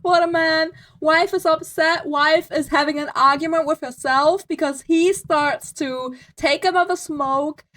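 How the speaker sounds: sarcastic. Real, not acted. Streamer sarcastic about the husband.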